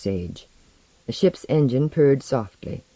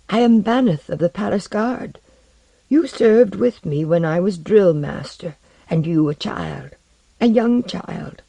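put-on emotional old retainer, pitched up; old palace guard; 5 semitones higher than usual. A narrator's reading. Old guard to the returned king, moved. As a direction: hail a long-lost liege, slowing at the end.

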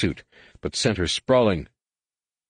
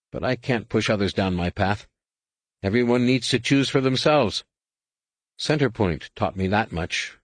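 put-on slightly raised, earnest young Jedi voice; lightly voiced earnest Jacen, uneasy; 3 semitones higher than usual. Jacen confessing his fears about the war, lightly voiced and earnest. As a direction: confide your worry to your brother.

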